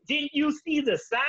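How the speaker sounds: the trooper can't believe it; hammed-up cop; incredulous trooper. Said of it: "And then".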